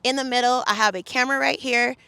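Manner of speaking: loud, steady, every word clear; loud and calm. Retold or imitated. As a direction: call it out loud but keep it calm. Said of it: "I'm s-, speaking very loud and calm".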